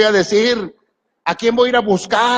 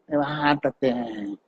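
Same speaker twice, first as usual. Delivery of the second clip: drawn-out command; 6 semitones lower, 8 dB quieter, much slower than usual. Pretend. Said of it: "lo vas a repetir".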